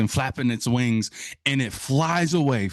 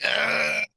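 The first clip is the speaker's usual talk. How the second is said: exasperated groan; 2 semitones higher than usual. Retold or imitated. Groans at favorite bird question.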